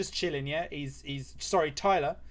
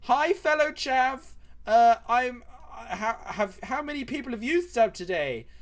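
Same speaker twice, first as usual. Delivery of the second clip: high-pitched, loud hammed-up greeting voice; chirpy chav neighbour; 9 semitones higher, 5 dB louder than usual. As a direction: play a neighbour calling out to a fellow chav. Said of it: "It's just like".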